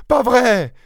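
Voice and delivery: encore plus aigu et sonore; répète-le plus fort; incrédule plus fort. Acted. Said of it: "s'exclama-t-elle". (épouse qui insiste, encore plus aiguë)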